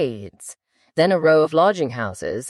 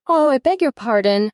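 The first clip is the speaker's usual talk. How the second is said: quick, raised apology; hasty cry; 7 semitones higher than usual. Acted. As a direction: blurt the apology out in a rush. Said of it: "cried Alice hastily".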